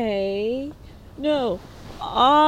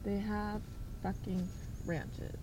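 much softer, "fucking" stressed low; muttered disbelief; 3 semitones lower, 15 dB quieter than usual. Real, not acted. Repeating the ranch complaint, soft disbelieving mutter. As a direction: mutter it under your breath in disbelief.

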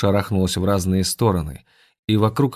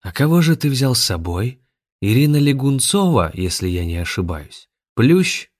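mocking taunt; 5 semitones higher, 3 dB louder than usual. Zakhar taunts the intruders.

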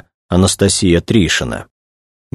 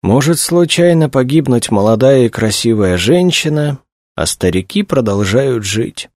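pitched-up mournful complaint; plaintive; 7 semitones higher than usual. A narrator's reading. Director laments that old men go on living, plaintive. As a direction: lament it pitifully, sinking at the end. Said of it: "жалобно произнёс он".

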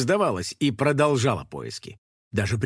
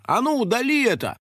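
high, indignant order; the blogger orders the girl to delete the video; demanding; 9 semitones higher than usual. A narrator's reading. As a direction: make her delete it now.

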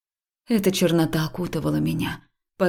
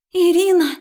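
high, loud cry of a name; a frightened girl's shout; panicked call; 13 semitones higher, 6 dB louder than usual. Acted. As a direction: scream her name from afar in panic. Friend calls out in panic.

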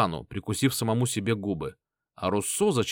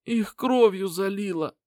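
put-on higher, slow feverish voice of an injured young man; an injured inventor rambling through pain; wounded Lin; 10 semitones higher, slower than usual. A narrator's reading.

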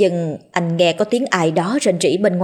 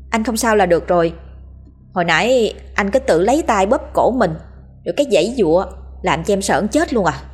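put-on frightened young wife; faster than usual. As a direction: rush it out like a scared wife. Narrator voices the frightened wife.

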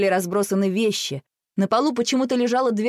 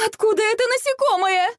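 much higher alarmed cry; shocked and frightened; 14 semitones higher than usual. A narrator's reading. Mum spotting the bug, high alarmed question. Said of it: "вскрикнула мама".

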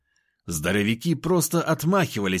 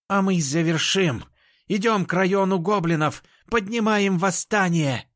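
rallying cry; 9 semitones higher than usual. Acted. Leader rallies her fighters.

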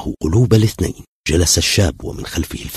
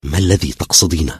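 exasperated, growing louder; irritated, on edge; 3 semitones higher, 7 dB louder than usual. A narrator's reading. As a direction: snap back, rising into loud protest. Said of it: "قال الشاب بعصبية". (بعصبية متصاعدة)

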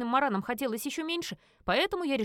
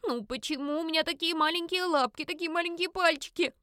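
high, whiny wail; a high, childish lament; 7 semitones higher than usual. Acted. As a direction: wail at your tiny paws. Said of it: "Надрывалась я во весь голос".

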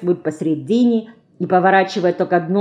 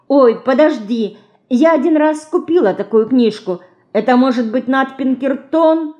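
concerned; 7 semitones higher, 4 dB louder than usual. A narrator's reading. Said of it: "озабоченно спросила мышка".

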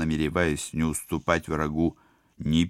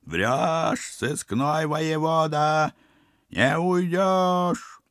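high, slow menacing villain; 12 semitones higher, 3 dB louder, much slower than usual. Acted. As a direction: drag it out like an evil sorcerer. Koshchei threatens the hero.

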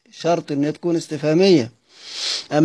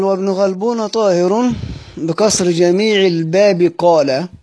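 slow chanted verse line; verse recitation; 3 semitones higher than usual. Shown as a demonstration. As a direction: recite the line slowly as a teacher would.

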